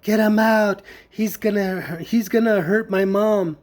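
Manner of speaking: mild mock scream; retold screaming. Sisters yelling at the hospital about him, retold as a mild yell. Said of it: "they were screaming and yelling".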